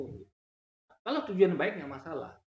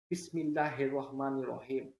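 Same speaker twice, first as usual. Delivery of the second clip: slow, measured Arabic recitation of Bismillah; proper Arabic accent; slower than usual. Shown as a demonstration. Teacher models the permitted reading, slow Arabic accent. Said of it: "Itu ada beberapa nada dalam bahasa".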